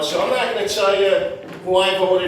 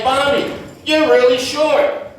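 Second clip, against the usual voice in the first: put-on higher, drawn-out Eastern European accent; 6 semitones higher, 4 dB louder, slower than usual. Ex-girlfriend teasing comic, mock Eastern European accent. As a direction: imitate her Eastern European accent, stretching it out. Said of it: "that accent that just makes you".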